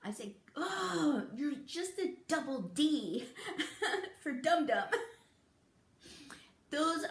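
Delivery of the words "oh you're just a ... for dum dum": laughing insult. Shown as a demonstration.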